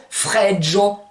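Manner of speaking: FREDDO with a "dj" before final o, "frèdjo"; Provençal pronunciation. Shown as a demonstration. Teacher giving feminine cold, Provençal pronunciation. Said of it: "On rajoute J O au féminin".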